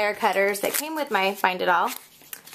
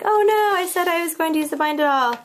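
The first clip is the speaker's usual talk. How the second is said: high, louder mock panic, easing slightly; retold freak-out; 7 semitones higher, 3 dB louder than usual. Crafter retelling losing her tool, mock panicked cry. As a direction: re-enact your panic with a high, loud start. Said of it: "I was just freaking out".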